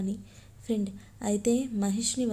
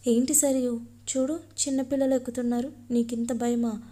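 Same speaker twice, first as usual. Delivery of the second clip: teasing taunt; 3 semitones higher than usual. Acted. Girl mocks Sarayu's fear.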